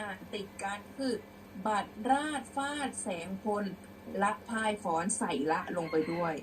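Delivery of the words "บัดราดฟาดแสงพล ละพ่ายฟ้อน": บัดราดฟาดแสงพล ละพ่ายฟ้อน linked by "la"; read joined up. Shown as a demonstration. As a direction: carry แสงพล on into ละพ่ายฟ้อน. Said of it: "เวลาอ่านให้อ".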